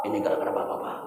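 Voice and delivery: sudden hushed, voiceless accusation; acted angry blame. Boy blames father after shouting at him, hushed. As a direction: drop to a hush to blame father. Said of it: "Anak marah-marah kepada Bapak saya".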